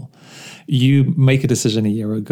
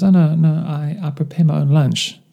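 punchline reply; 4 semitones higher than usual. Retold or imitated. Worker admitting he packs his own lunch, earnest. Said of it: "And the man goes".

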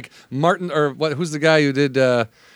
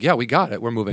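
laid-back director; 5 semitones lower, faster than usual. Retold or imitated. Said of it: "he's like".

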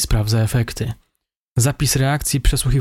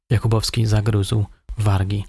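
ordinary delivery, nothing marked

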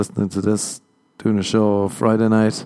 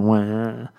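mock fake wail. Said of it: "Oh, just then".

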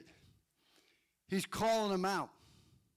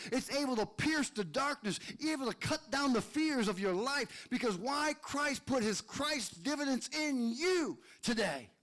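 animated preacher, pitch climbing toward the close; fired-up preaching; 5 semitones higher than usual. Real, not acted. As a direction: preach it with mounting drive. Energetic preaching build.

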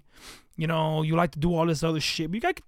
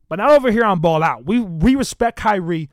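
louder, faster hype for the show; big up the show and Kyrie; fast, loud podcast shout-out; hyped shout-out; 5 dB louder than usual. Real, not acted. Hyping up his own show.

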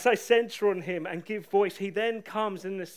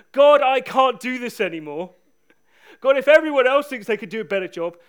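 loud desperate shout to God; 5 semitones higher, 14 dB louder than usual. Retold or imitated. Preacher retelling his rain-soaked prayer in the park, shouting out. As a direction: cry out at full force, worn down. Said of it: "just shouting out".

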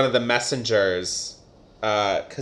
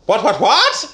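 high laughing disbelief; shocked what-what; 3 dB louder than usual. Retold or imitated. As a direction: sputter in giggly shock. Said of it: "and she's like".

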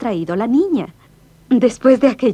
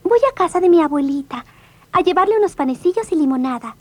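put-on little girl voice; 5 semitones higher than usual. Girl answers wolf.

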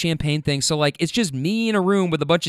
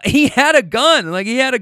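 laugh, then blurt it out loud; real incredulous laugh, pitched up; laughing disbelief; 8 semitones higher, 6 dB louder than usual. Real, not acted. Laughing disbelief at own story.

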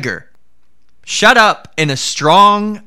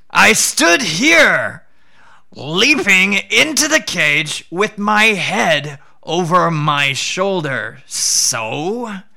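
higher, slow jackal acting confused; a crafty jackal muddling the story on purpose; sly jackal; 4 semitones higher, slower than usual. Jackal pretends confusion to trap the tiger, higher and slow.

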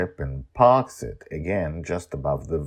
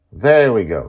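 relieved; 7 semitones higher, 14 dB louder than usual. Acted. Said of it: "with great relief".

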